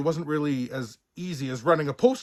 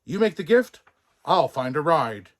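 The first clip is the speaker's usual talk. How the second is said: firm orders; 2 semitones higher, 6 dB louder than usual. Acted. Buck giving orders.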